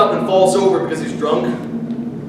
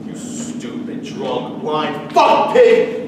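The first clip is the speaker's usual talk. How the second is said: building curse; 3 semitones lower, slower than usual. Acted. Child cursing blind drunk father, from mutter to outburst. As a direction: let the hatred boil over.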